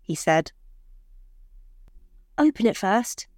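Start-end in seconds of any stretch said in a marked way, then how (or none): 2.4-3.3 soft smile. Acted. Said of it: "smiling softly".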